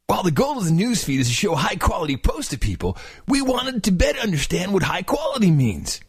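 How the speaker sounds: laid-back surfer dude reading. Shown as a demonstration. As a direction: read it like a mellow surfer. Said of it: "reading in that slightly surfer voice that you do".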